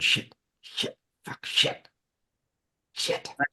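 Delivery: barely audible, whispered muttering under the breath. Voicing the babysitter as he walks: muttering under his breath. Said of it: "very slightly under his breath going".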